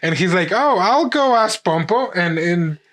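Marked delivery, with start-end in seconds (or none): 0.5-2.1 high, eager little quote; pitched-up, keen character voice; eager quoted thought. Retold or imitated. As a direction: mimic someone landing on a bright idea. Voices the character's hopeful idea.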